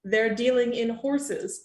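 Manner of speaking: breathy mystic fortune teller whisper; psychic voice. Acted. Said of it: "psychic voice".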